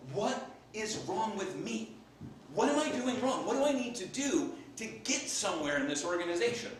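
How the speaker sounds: acted-out exasperation; frustrated. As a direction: plead for an answer in mild frustration. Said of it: "he got very frustrated".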